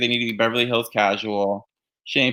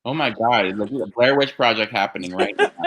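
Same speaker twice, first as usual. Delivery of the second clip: laughing. Real, not acted. Laughing at the glitchy video.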